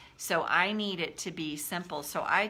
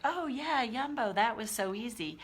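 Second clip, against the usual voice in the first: higher-pitched, airy pretend nonchalance; mock breezy ease; 4 semitones higher than usual. Coach mimicking someone who finds it easy, mock breezy. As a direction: toss it off as if it were effortless. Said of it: "It doesn't mean it's like".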